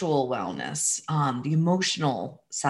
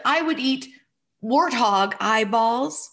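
little boy, much higher, half crying and half playing along; child's voice; 6 semitones higher than usual. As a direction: voice the small son as he starts to joke. Son's voice in retold dialogue.

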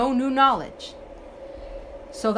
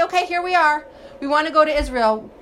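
higher and louder, suddenly keen; eager turnaround; 4 semitones higher, 4 dB louder than usual. Retold or imitated. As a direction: sell the sudden change of heart as a mock eager crowd. People eagerly change their mind.

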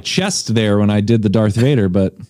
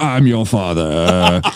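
lower, mock Vader menace; lightly voiced Vader quote; Darth Vader line; 8 semitones lower than usual. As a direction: drop into a villain's threat. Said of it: "Darth Vader".

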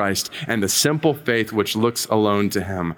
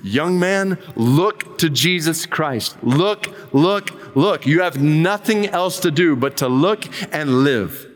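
raised, drawn-out call of look, look, look; mild retold shout; 3 semitones higher, slower than usual. Preacher calls out to the young man, a mild mock shout. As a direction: lift the hands and call it out, lightly. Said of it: "he shouted as only a primitive Methodist could do".

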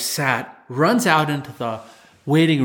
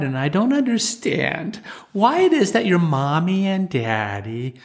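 gentle insult. Retold or imitated. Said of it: "I kneel cautiously by his side, and I put my hand on the top of his hand".

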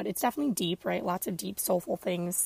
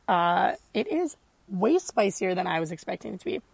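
mouth on fire; 6 dB louder than usual. Real, not acted. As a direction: sniffly, mouth burning from spicy salsa.

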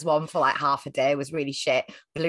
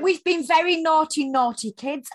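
mocking quote, much higher and louder; dripping sarcasm; 9 semitones higher, 4 dB louder than usual. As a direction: sneer it out high like a smug brat. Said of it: "this dripping sarcasm".

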